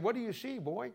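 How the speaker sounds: Jesus asks the half-healed blind man, lightly voiced; Jesus asking. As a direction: lift the voice for Jesus questioning him. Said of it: "But Jesus said".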